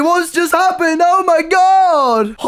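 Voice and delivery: high, hammed-up shouty hype; terrible impression voice. Joker announcing a strawberry, terrible high-pitched impression. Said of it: "that was a terrible impression".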